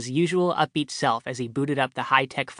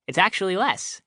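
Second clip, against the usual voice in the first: bright; 6 semitones higher than usual. A narrator's reading. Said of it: "he said brightly".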